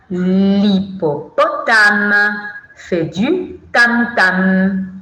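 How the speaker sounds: put-on slow, deliberate rhythmic verse for children; poem recitation. Shown as a demonstration. Teacher presenting the hippo's poem line, slow recitation. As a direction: space out the syllables of the verse.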